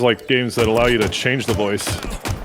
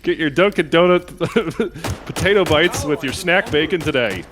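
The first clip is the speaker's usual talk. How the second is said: commercial read; 6 semitones higher than usual. Pretend. Parody commercial read, laughing.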